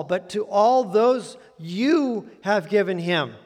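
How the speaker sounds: slow, weighted stress on given in "you have given him"; emphasis on given. Shown as a demonstration. Preacher to congregation, stressing given slowly. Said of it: "I want to emphasize the word give here".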